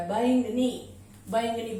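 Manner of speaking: பைங் நீ with g running straight into long நீ; g without full vowel. Shown as a demonstration. Teacher modelling the word, g without full vowel. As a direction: stress பைங், then a long நீ. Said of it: "கன்னு full sound கொடுக்காம".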